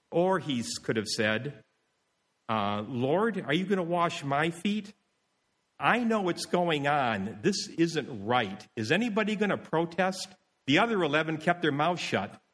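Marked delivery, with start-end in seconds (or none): 2.9-10.3 mildly indignant challenge, slightly raised pitch; haughty protest. Acted. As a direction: object with a touch of self-importance. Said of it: "Peter did have a haughty spirit".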